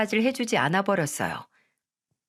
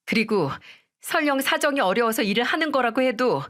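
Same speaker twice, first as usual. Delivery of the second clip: angry wife; 3 semitones higher than usual. Acted. Wife furious in marital fight.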